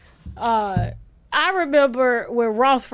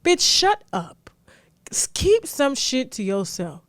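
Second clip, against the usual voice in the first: slow scolding; slower than usual. Real, not acted. Scolding the author.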